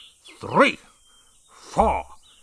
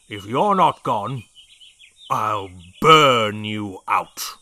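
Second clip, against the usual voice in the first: loud, slow threat rhyme; shouting; 7 dB louder than usual. A narrator's reading. Brig's threat rhyme again.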